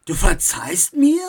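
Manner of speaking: indignant, loud retort; outraged disbelief turning to accusation; angry. A narrator's reading. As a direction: throw the accusation back angrily. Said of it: "Max war wütend".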